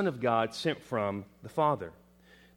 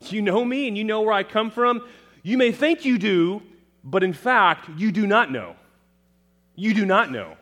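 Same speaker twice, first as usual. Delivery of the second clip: much higher and louder, incredulous challenge; forceful rebuke; 8 semitones higher, 9 dB louder than usual. Shown as a demonstration. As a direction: throw the question back at them. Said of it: "is better read as a question".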